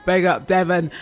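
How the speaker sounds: mock posh English accent on Big up Devon; lightly put-on posh English accent, playful. Shown as a demonstration. DJ shouting out Devon in a mock posh English accent. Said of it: "Watch me, my posh accent".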